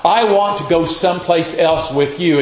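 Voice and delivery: a man pleading to tag along. Acted. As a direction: beg to follow him, pressing. Man begging Jesus to come.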